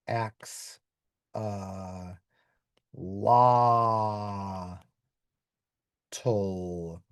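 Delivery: axe, uh, la, tul, said as broken-up syllables; naive guess spelling. Shown as a demonstration. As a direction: sound out "axe, la, tul" piece by piece. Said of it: "I guess you do it like".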